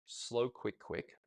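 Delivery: slow quick quick counted out; a steady count of "slow, quick, quick"; counted rhythm. Shown as a demonstration. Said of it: "you count a, say, a feather finish".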